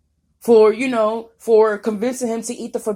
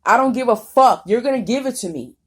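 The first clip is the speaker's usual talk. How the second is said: angry shout; 4 semitones higher, 4 dB louder than usual. Real, not acted. Angry rant at tormentors.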